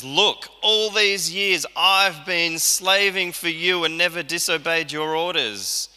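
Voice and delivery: a hint of the wronged son's grievance; resentful older son. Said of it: "He says".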